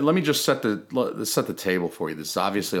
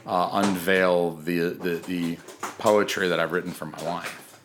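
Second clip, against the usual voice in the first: slow, deliberate unveiling; hammed-up solemn announcement; mock ceremonious; 4 semitones lower, slower than usual. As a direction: drag it out like a big reveal. Formal unveiling of the poem.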